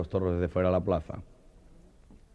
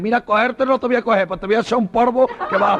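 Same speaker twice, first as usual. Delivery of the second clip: much higher, louder bull voice; lecherous bull; 9 dB louder than usual. Retold or imitated. The bull whispering to the banderillero, high and loud. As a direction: purr it into his ear. Bull's punchline.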